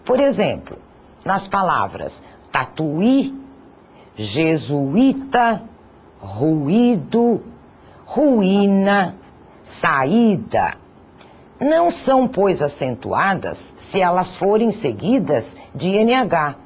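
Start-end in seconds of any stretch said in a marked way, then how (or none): 2.5-10.7 jesuíta said slowly, syllables apart; slow, clear demo word. Shown as a demonstration. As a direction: draw out jesuíta, je-su-í-ta. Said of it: "Hiatos constituem duas vogais que nós pronunciamos em sílabas separadas". (jesuíta dito devagar, separando as sílabas)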